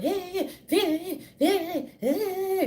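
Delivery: laughing yeahs. Real, not acted. Laughing agreement.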